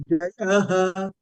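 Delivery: "Jayaha" with the ya lifted; upward intonation on ya. Shown as a demonstration. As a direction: raise the tone on "ya" in "Jayaha". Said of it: "ya carrying upward intonation".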